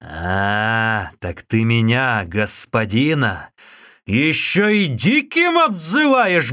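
monk raging at being called wild. Acted. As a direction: explode with outrage. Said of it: "бушевал Усун".

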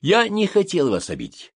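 high-pitched placating apology; conciliatory. A narrator's reading. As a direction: soothe the offended waiter. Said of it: "примирительно сказал комиссар". (примирительно)

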